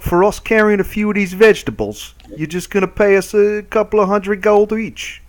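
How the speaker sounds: high-pitched incredulous adventurer; haggling adventurer. Acted. Adventurer querying the farmer's pay offer, high and incredulous. Plays his character haggling.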